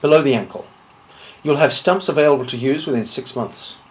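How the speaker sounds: deliberate threat with long pauses; measured menace. Acted. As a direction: list each threat coolly, letting it land. Threatens a duel opponent, item by item.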